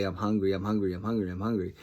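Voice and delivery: imitating a nagging, unvarying refrain; repetitive pestering. Young nephew pestering for food, repetitive. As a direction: run the phrase together over and over. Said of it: "He would repetitively say".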